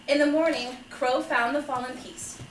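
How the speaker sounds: measured picture-book reading; story narration. Acted. Father reading a fable to children, measured storytelling. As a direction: read it like a gentle fable, phrase by phrase.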